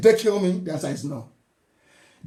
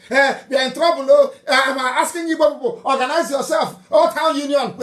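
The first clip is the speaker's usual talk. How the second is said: higher, whiny mock plea; mock distress video; 4 semitones higher, 3 dB louder than usual. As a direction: ape their panicked appeal. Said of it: "doing video from America, sending message".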